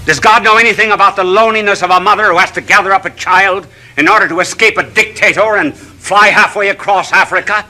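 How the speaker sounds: rising, fervent preacher cadence; impassioned televangelist sermon; preaching. Acted. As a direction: build each question like a sermon. Preaching series of questions.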